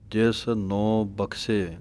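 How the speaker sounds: slow, ਬਖਸ਼ੇ with an aspirated kh. Shown as a demonstration. Teacher models ਬਖਸ਼ੇ correctly. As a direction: say ਬਖਸ਼ੇ as bakhse, plain s. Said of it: "ਕੱਖੇ ਦੀ ਆਵਾਜ਼ ਆਉਣੀ ਹੈ".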